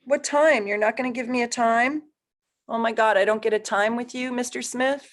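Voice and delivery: teasingly scandalized at the missing time; mock outrage. Real, not acted. Teasing a viewer who left out a birth time, high and playfully indignant.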